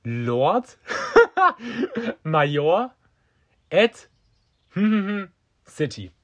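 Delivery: reading the title out between fits of laughter; can barely get the words out for laughing; laughing through it. Real, not acted. Reading the mayor's LinkedIn title, cracking up. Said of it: "hat's mich so weggehauen".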